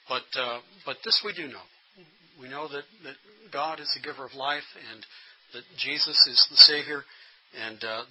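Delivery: a pastor's measured funeral address. Shown as a demonstration. Pastor to mourners at a funeral, a calm sermon voice. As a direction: speak plainly, then build to faith. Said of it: "You can address it very quickly".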